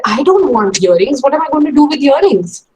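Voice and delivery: child protesting, lightly acted; mock upset child. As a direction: act out a ten-year-old begging for books. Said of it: "she cried and she screamed and she said".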